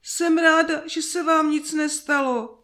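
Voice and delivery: high-pitched tearful relief; sobbing nanny. A narrator's reading. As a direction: speak high, as if through tears. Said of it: "vzlikala chůva".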